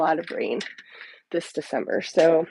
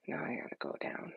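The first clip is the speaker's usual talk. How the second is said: whispering; 16 dB quieter than usual. Real, not acted. Muttering while adjusting device.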